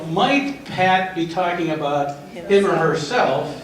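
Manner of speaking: "might" leaned on at the start, the whole line said slowly; stress on might. Shown as a demonstration. Trainer to staff, pressing the doubt: stress on "might", slow. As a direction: weigh the word "might" so it sounds like a real doubt. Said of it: "I emphasize the word might".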